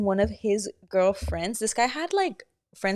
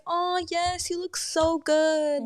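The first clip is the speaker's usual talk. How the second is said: gushing compliment; 7 semitones higher, 3 dB quieter, much slower than usual. Retold or imitated. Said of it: "showing genuine emotion".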